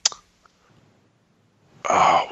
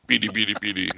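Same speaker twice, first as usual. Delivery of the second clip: lower, softer and downcast; mournful; 6 semitones lower, 4 dB quieter than usual. Shown as a demonstration. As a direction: let it sink, deflated. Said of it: "you lost a testicle".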